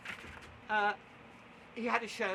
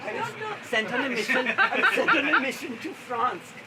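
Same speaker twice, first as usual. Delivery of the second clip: put-on higher, lilting go at a Welsh accent; attempted Welsh accent; 5 semitones higher, 4 dB louder than usual. Comic storyteller quoting Tilly Matthews, attempted Welsh accent. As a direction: have an amateur stab at Welsh. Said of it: "Anybody Welsh here?".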